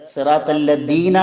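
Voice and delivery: സിറാത്തല്ലദീന said with a hard d, the wrong way; wrong pronunciation. Shown as a demonstration. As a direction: say സിറാത്തല്ലദീന with a plain d instead of th. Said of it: "എന്ന് ദാലും വായിക്കരുത്".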